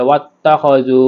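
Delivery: "ওয়াত্তাখাজু" with long final u; one-alif stretch. Shown as a demonstration. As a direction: draw out "জু" at the end of "ওয়াত্তাখাজু". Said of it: "ওয়া সাকিন এক আলিফ টেনে পড়তে হবে". ("জু" এক আলিফ টেনে)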